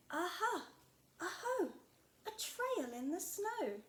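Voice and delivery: a small explorer shouting her discovery; excited Gruffalo child. Acted. Child finds a trail.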